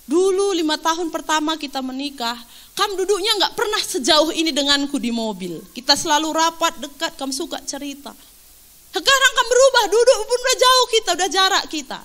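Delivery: lightly acted wifely grumble, pitch jumping on the accusations; complaining wife. Preacher voices wife grumbling to husband in the car. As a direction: imitate a wife's wounded complaint. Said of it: "istrinya mulai mengeluh gini di mobil".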